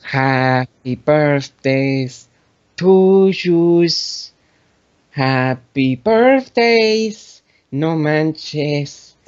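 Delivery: put-on slow sung birthday song, Hispanic accent. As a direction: croon it in a hammed-up Hispanic accent. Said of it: "sing "Happy Birthday" in a Hispanic accent".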